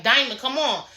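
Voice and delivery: high, insistent imitated call; calling someone out. Retelling a castmate challenging Diamond, high-pitched call-out. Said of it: "had to call Diamond out".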